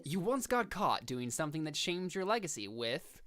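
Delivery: hint of a dramatic announcer. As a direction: read it like an announcer. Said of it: "read it in your announcer voice".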